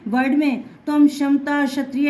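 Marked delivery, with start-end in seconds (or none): 1.1-2.1 क्षमता and क्षत्रिय starting straight on sh; teacher models क्षमता, क्षत्रिय without any k; silent initial क. Shown as a demonstration. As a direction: say क्षमता, क्षत्रिय as shamta, shatriya. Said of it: "ऐसे बोलेंगे".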